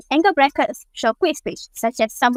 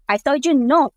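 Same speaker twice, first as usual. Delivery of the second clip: "I told you no." pushed louder with force; strong stress; 2 semitones higher, 4 dB louder than usual. Shown as a demonstration. Student demoing capital-letter intensity, firm stress. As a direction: put strong weight on "no". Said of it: "show even stronger intensity".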